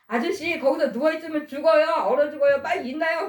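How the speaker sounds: yelling at him to get up before he freezes; retold shouting. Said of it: "막 그러면서 소리 지르면".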